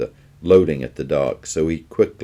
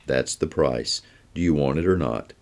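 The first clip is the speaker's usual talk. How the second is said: calm; 4 dB quieter than usual. Acted. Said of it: "answered calmly".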